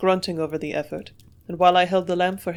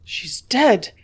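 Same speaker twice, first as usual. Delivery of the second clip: anguished cry, high and loud; cried out; 5 semitones higher, 7 dB louder than usual. A narrator's reading. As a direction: cry it out in shock. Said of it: "I cried".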